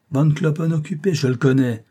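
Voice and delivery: high, loud scornful cry; a shrill blustering shout. A narrator's reading. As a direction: yell it with contempt. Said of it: "criait cette voix".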